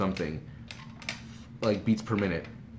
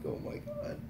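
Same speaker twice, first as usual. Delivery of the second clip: soft, voiceless breath of amazement; awed whisper; 11 dB quieter, slower than usual. Retold or imitated. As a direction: whisper it as if starstruck. Retold awe after the photo.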